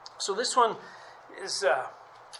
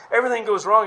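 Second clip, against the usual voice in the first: emphatic outcry; 5 semitones higher, 11 dB louder, faster than usual. Real, not acted. Emphatic sermon point.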